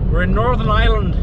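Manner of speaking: a clumsy Northern Irish put-on, pitched high; bad Northern Irish accent. Shown as a demonstration. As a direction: try Northern Irish and miss badly. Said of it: "That was a terrible accent".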